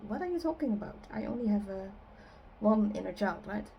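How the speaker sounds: a touch of incredulous questioning; mock disbelief. Voices a doubtful listener's reaction.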